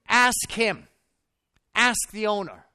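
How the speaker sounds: God pressing him, not taking no; firm divine command. Retold or imitated. God answering in prayer.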